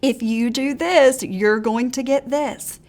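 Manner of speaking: slow, coaxing bribe; bribing tone. Retold or imitated. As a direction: dangle a reward slowly. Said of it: "We're not saying".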